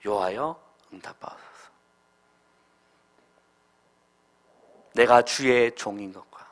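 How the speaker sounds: low, subdued plea to God; short prayer. Retold or imitated. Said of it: "한 일 분 정도 기도한".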